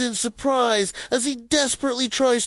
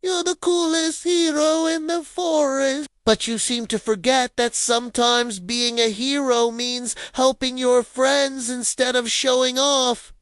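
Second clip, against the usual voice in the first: smiling; 5 semitones higher than usual. Acted. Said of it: "Lila says with a smile".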